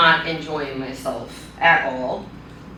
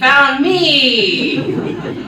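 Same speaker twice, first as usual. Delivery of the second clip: laughing; 7 semitones higher, 5 dB louder than usual. Real, not acted. Laughs mid-sentence.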